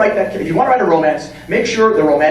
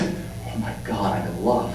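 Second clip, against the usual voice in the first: much lower, soft dreamy awe; smitten; 11 semitones lower, 11 dB quieter than usual. Retold or imitated. Superman seeing Lois for the first time, low soft awe. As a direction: sigh it out, instantly lovestruck.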